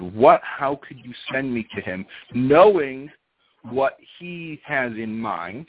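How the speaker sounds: mildly outraged retold protest; indignant, stretching out the final words. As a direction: act out an affronted wife with mild force. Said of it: "she was outraged".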